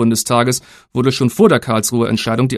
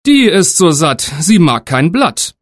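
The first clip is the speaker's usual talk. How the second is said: son reassuring; 4 semitones higher, slower than usual. Acted. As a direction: sell the lie to father. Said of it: "antwortete der Sohn".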